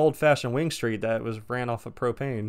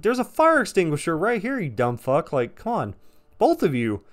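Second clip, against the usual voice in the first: frantic yell; 6 semitones higher, 4 dB louder than usual. Retold or imitated. Yelling at coworkers during fire.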